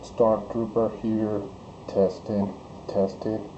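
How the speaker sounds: robotic voice changer. Real, not acted. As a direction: speak through a robot voice filter. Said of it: "See the difference again?".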